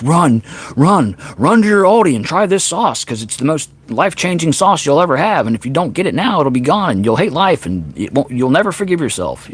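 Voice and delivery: hyped promo pitch. Retold or imitated. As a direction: sell it like a frantic influencer. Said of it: "somebody's like".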